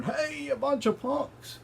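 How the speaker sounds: squeaky mock taunt from the enemy champion; mocking giant's holler. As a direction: sneer it out like a cartoon bully. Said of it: "starts hollering".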